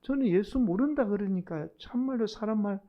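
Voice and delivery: exasperated Gyeongsang dialect denial; plead, then disown him in thick Gyeongsang dialect; cursing in Gyeongsang dialect. Acted. Peter cursing Jesus to be believed, exasperated Gyeongsang dialect. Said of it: "막 그렇게 막 예수님께 저주를 퍼부은 거예요".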